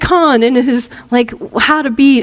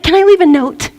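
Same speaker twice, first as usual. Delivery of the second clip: lightly voiced pushy mother, higher; put-on higher pleading mother; obnoxious mother; 5 semitones higher than usual. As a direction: wheedle for one last chance. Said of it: "So she's like".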